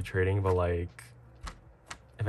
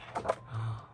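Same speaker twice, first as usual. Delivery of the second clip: soft gasp of delight; awed gasp; 6 dB quieter than usual. Real, not acted. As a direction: gasp softly at a lovely picture. Reacting to photo book pictures.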